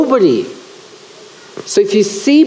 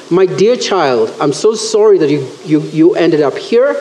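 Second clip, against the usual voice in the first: compassionate; 5 semitones lower than usual. Retold or imitated. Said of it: "Does he look at them with compassion?".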